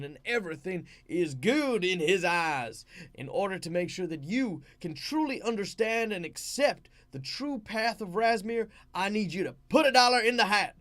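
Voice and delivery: loud, high-pitched revival preacher; fervent evangelist. Acted. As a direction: work up the congregation, building to full-voiced shouts. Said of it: "based off an evangelist".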